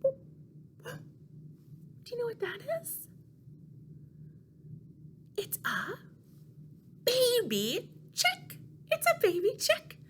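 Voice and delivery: high, soft, wondering reveal; playful reveal to toddlers; hushed excitement. Acted. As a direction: build the surprise. Revealing tiny chick puppet.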